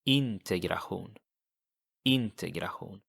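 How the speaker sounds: Integration Swedish style, ending in a throaty hoon; Swedish pronunciation. Shown as a demonstration. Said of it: "How would you pronounce that in Swedish?".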